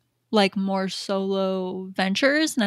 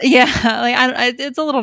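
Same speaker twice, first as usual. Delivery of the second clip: nervous laugh; 5 semitones higher, 6 dB louder than usual. Real, not acted. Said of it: "Nervous laugh".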